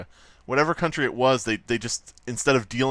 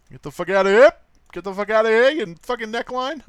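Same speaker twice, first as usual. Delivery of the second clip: high, loud mock fury at the neckline; mock angry yell; 11 semitones higher, 7 dB louder than usual. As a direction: yell it at the drawing, hammed-up. Yelling at the drawing.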